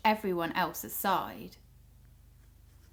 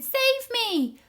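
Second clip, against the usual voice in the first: high, loud plea to be saved; frightened cry; 14 semitones higher, 6 dB louder than usual. Acted. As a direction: shout it out in panic. Pot swept down custard river.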